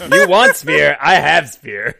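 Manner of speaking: loud broken-English brute; brutish barbarian voice. Acted. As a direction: bellow it like a dim warrior. Barbarian offers spear.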